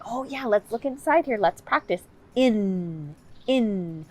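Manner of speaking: playful therapist stress on in; emphasized ending. Shown as a demonstration. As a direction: lean on the n of "in". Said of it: "You can emphasize those sounds".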